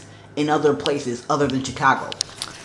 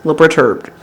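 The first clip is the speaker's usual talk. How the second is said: sad; 4 semitones higher, 7 dB louder than usual. Real, not acted. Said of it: "I'm sad now".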